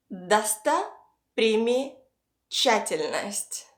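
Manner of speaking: slow Достопримечательность, paused between chunks; piece by piece. Shown as a demonstration. Teacher pieces a hard word together, slowly in chunks. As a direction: break Достопримечательность into Досто, приме, чательность. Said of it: "try to piece it all together".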